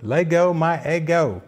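lightly imitated Southern waffle-commercial kid; Southern accent. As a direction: mimic a little boy's Southern catchphrase, slightly lifted. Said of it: "with a southern accent".

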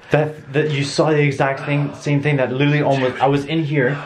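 loud, high, rushed words; frantic retelling. Real, not acted. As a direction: tell it fast, still scared. Excited scared retelling.

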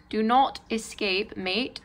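slow mock-British warning to the spider; pretend UK accent. Telling the spider not to escape in a UK accent. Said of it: "pretend U K accent".

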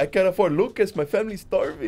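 high, hammed-up Latino-accented sob story; mock Latino accent. Scammer begging for a starving family, mock Latino accent. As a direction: plead poverty in fake Latino. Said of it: "why do you sound Latino".

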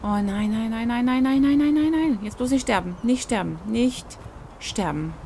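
building from worried to loud high panic; rising panic. Real, not acted. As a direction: escalate the desperate no. Health dropping, rising panic.

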